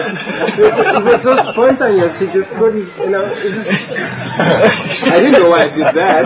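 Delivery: amused disbelief through laughter; laughing. Real, not acted. Laughing while telling.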